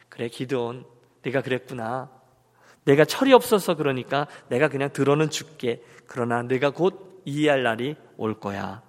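low, patient, consoling voice; understanding, compassionate. Acted. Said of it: "진심으로 이해하고 공감하고 안타깝게".

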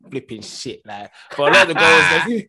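high, heated ranting. Real, not acted. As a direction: wind yourself up about it. Heated rant about Smalling.

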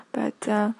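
words around a sip of tea; while sipping a drink. Real, not acted. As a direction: talk while taking a sip. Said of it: "sorry, I'm drinking tea".

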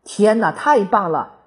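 high, loud delighted cry; excited shout. A narrator's reading. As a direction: burst out in delight. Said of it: "有人禁不住喊道".

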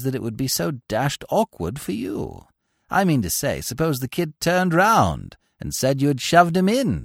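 lightly voiced long-suffering suitor; weary lovesick Bingo. A narrator's reading. Bingo voiced throughout scene.

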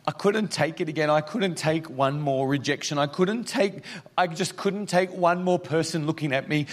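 a hint of a broken woman's plea; her pleading voice. Pastor voicing the woman's despair, pained and high. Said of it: "She said".

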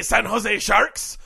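shouted punchline. Acted.

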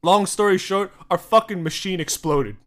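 loud, pushy explaining; hammed-up desperate caller; mock urgent plea. American caller begging Egyptian company for a snow machine, loud.

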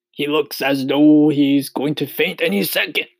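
high, loud centipede voice. A narrator's reading. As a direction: announce it as a storybook centipede. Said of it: "the centipede said".

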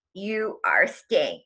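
slow, drawn-out pronouncement; imitated commanding voice. Voice calling her back from floating, slow mock command. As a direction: retell the voice's order slowly. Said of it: "like, this voice going".

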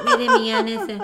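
high, laughing imitation of میرے میاں نے; laughing mock quote. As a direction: tease her phrase میرے میاں نے through a laugh. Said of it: "میں کہتی ہوں". (ہنستے ہوئے نقل)

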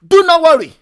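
a preacher's ringing rebuke; forceful shout. Acted. Preacher's rebuttal to imagined complaint.

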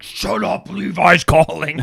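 high, excited hushing mom; mocking imitation. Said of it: "she looks over, like".

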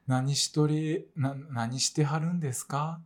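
restrained, tentative Kyoto-dialect reproach; Kyoto-dialect scolding. Acted. Asked to get angry in Kyoto dialect, mild restrained reproach. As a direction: lightly imitate a polite Kyoto telling-off. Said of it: "京都弁で。".

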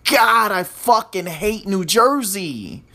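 a half-hearted angry line, slow; first try at anger. Shown as a demonstration. Podcaster tries to sound angry at New Jersey, mild and slow. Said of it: "let me say that with more, with more aggression".

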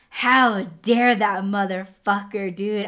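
mock outrage with punched opening words; pissed off. Storyteller recalling reaction to the stolen rainbow, pissed off. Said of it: "I was fucking pissed".

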